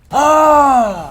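high loud cry; startled cry. Real, not acted. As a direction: cry out in shock. Sudden scream.

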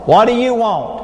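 hammed-up rude phone answer; rude receptionist. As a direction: bark it like a bored receptionist.

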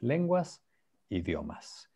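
lenguas then idiomas said clearly, each word set apart; teacher modelling words. Shown as a demonstration. Teacher modelling the two Spanish words for students. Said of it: "lenguas is the same as idiomas".

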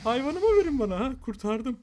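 high, very loud demand; frantic shout. Real, not acted. Player demands his animal back, frantic shout. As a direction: yell it out in high-pitched alarm.

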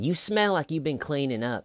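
high-pitched imitation of a detective; hammed-up suspicion; mock accusation. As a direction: mimic an accusing detective, voice pushed up.

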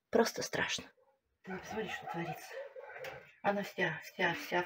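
horrified whisper; шёпот. Real, not acted. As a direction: whisper in dismay. Шёпотом о ранах. (испуганный шёпот)

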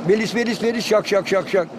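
lifted opening dropping into steady şak beats; bird song example. Shown as a demonstration. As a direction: chant it like a finch. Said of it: "V harfinden çıkaranlar". (saka ötüşü taklidi)

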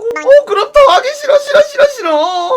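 half-laughing, half-sobbing mock whine; whiny disgust. Wailing no at the pushy club guy. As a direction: whimper no over and over like a spoilt child.

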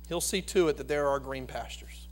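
soft whispered promise. Acted. Preacher whispering comfort to the flock, soft whisper. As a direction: whisper it like a secret to the congregation. Quiet aside in the sermon.

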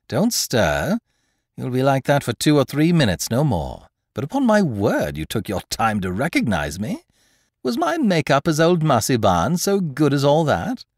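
a hint of a mocking gentleman thief; lightly voiced thief, pleased with himself; lightly voiced Lupin. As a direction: speak with amused confidence.

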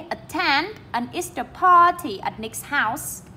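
slow model reading, TEND and PAR stressed; at-TEND and PAR-ty picked out slowly; marked word stresses. Shown as a demonstration. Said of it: "đánh dấu trọng âm luôn".

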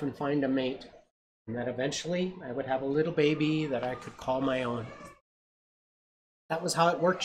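gentle read-aloud storytelling; story narration. A narrator's reading. Parent reading a picture book to a child, storytelling voice.

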